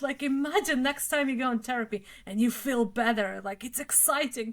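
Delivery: hammed-up cheerleader for a friend; mock excited. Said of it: "And I'm like".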